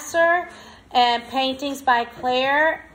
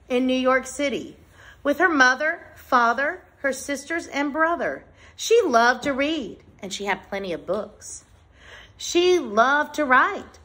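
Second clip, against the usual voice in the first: measured, clearly phrased picture-book read-aloud; reading to children. Acted. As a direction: read it out to a class, pausing between phrases. Reads picture book to class.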